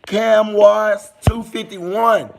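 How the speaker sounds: slow, loud, stretched-out name call; drawn-out shoutout. Real, not acted. Streamer calling out a chat viewer by name, slow and loud. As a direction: stretch the username out loud like an announcer.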